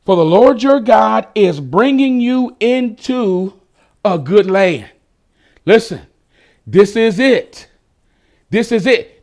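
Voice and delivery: mild preacher's build-up; building toward a shout. Acted. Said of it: "here's the part that makes me wanna shout".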